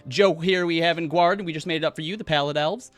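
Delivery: big, loud fake stage laugh, then patter; blustering showman. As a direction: cover the slip with high theatrical bravado. Showman covers his mistake with bravado.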